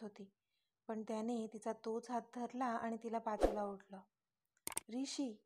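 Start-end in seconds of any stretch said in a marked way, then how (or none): 4.9-5.3 louder, slowly drawn out angry demand. A narrator's reading. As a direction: stretch each word in loud anger. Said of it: "ती चिडून बोलली".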